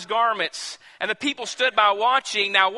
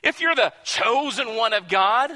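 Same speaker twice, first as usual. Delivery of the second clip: high, louder taunting jeer; the crowd's mild mocking jeer; 5 semitones higher, 4 dB louder than usual. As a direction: sneer up at the crucified king. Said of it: "they're mocking him".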